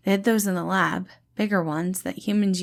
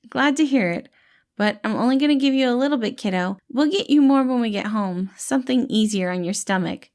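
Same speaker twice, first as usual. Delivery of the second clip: higher, louder friendly reassuring voice; gentle dad-like rescuer, pitched up and bright; cheerful caretaker Patton; 4 semitones higher, 4 dB louder than usual. Acted. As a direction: play the kind, upbeat helper calming a scared kid. Patton feeds Virgil.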